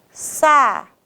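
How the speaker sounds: "saúde" split into "sa, ú, de" with pauses; syllable-by-syllable stress. Shown as a demonstration. Teacher showing the penultimate syllable, "saúde" split as "sa, ú, de". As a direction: separate each syllable of "saúde", holding the "ú". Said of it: "a penúltima sílaba mais forte".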